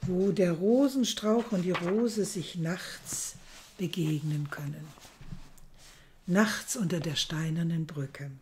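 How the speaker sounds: reading a novel aloud, measured and hushed; gentle storyteller voice; story reading. A narrator's reading. Reads a novel excerpt aloud.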